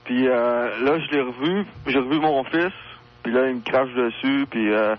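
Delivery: telephone line sound; radio show caller. Real, not acted. (voix au téléphone)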